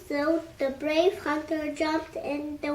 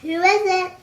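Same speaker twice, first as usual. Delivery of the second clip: calling out; 4 semitones higher, 8 dB louder, much faster than usual. A narrator's reading. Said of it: "called out Granny".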